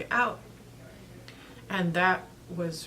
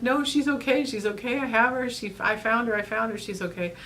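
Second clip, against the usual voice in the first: urgent reassurance; 4 semitones higher than usual. Retold or imitated. Reassuring husband over bad line, high urgent then settling. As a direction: insist the cat is fine, calming down toward the end. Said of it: "And I'm like".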